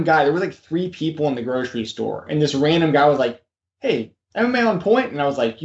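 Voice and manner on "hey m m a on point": high-pitched call of recognition; imitated fan greeting. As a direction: imitate a stranger hailing someone they recognize. Voices stranger recognizing him.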